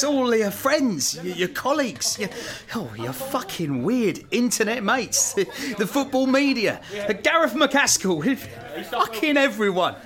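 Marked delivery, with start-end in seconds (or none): 2.7-9.9 giggling while listing names; words tumbling out between laughs; laughing through it. Real, not acted. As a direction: chairman laughing with relief after signing the deal. Giddy thanks after signing.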